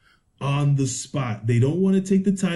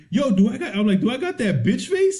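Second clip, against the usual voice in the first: much higher, laughing through the words; laughing outrage; 6 semitones higher than usual. Retold or imitated. Telling his friend about the clerk walking away, laughing. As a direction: ask it half laughing, half offended. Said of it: "I was like".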